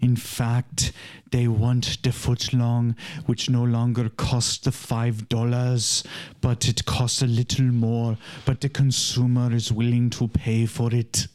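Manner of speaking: lightly voiced German narrator; Werner Herzog. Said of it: "imagining him talking about Subway sandwiches".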